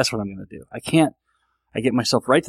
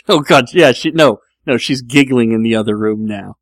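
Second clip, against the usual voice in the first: loud, amused exasperation; fighting down real laughter; trying not to laugh; 7 dB louder than usual. Real, not acted. Host whose wife giggles next door, trying not to laugh. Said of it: "I'm laughing so hard in my own head".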